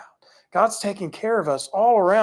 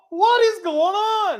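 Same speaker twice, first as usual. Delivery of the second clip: astonished; 11 semitones higher, 3 dB louder than usual. Retold or imitated. Imagined gatekeeper astonished.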